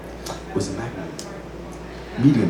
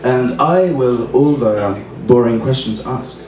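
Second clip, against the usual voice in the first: mock-lofty recital of a modern parody verse; open-mic poetry reading; poem reading. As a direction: deliver it like a serious poem with a wink. Reads his own poem aloud.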